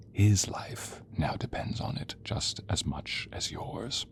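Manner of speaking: slow hushed threat; menacing whisper. Acted. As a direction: breathe the threat slowly. Threatening captive, low menace.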